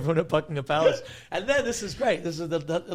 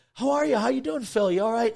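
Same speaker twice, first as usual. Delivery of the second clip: imitated hearty greeting; 5 semitones higher, 4 dB louder than usual.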